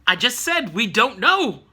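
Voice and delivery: playfully fed-up, swooping emphasis; mock exasperation. Recapper answering an imagined viewer who asks why, mock exasperated. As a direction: repeat yourself with pretend impatience.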